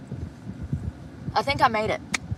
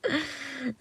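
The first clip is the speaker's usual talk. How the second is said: hiccup giggle; 7 semitones higher, 10 dB quieter than usual. Real, not acted. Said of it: "I sound like that drunk mouse in Dumbo".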